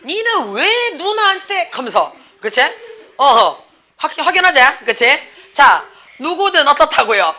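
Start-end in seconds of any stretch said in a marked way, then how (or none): 0.0-1.7 high, slow, swooping telling-off; mock fatherly scolding. Dad scolds child over older sister, mock scolding. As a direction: imitate dad scolding, half laughing.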